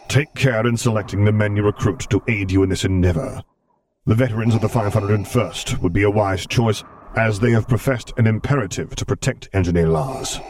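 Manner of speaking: cold, measured imperial authority; Darth Vader voice. Acted. Vader voice continues.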